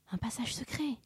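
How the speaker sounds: hushed, whispery aside; murmur. A narrator's reading. Vera finds a secret passage alone, murmuring. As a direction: murmur it in secret wonder, softly. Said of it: "murmura-t-elle".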